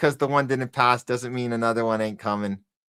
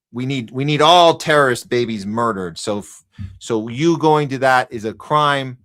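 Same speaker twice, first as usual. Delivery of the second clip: louder, sneering mock official; sarcastic mock decree; 5 dB louder than usual. Streamer mocking the authorities in a sneering, loud voice. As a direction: spit it out as a grotesque decree.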